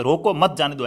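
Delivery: रोको, a short break, then मत जाने दो together; group मत with जाने दो; pause after रोको. Shown as a demonstration. Teacher explaining an order to stop someone, break after रोको. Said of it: "रोकने का कह रहा है".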